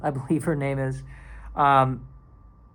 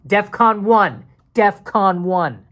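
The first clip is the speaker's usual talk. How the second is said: loud, raised mock-emergency alert; alarm call; 6 semitones higher, 6 dB louder, much slower than usual. Mock call to the Oval Office about Chat G P T, urgent alarm. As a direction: sound the alarm, higher and louder.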